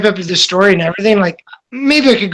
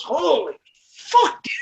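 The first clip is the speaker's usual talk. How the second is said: laughing shock; 6 semitones higher, 6 dB quieter, slower than usual. Retold or imitated. Blood gushes into friend's face.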